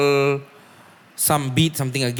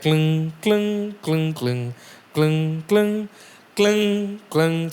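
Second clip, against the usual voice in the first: imitated piano notes; 3 semitones higher, much slower than usual. Shown as a demonstration. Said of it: "if you listen to the right".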